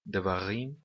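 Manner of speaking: devarim with the accent on final "rim"; devarim stressed at the end, "deva-RIM"; stress on last syllable. Shown as a demonstration. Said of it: "nós pronunciamos com o acento na última sílaba".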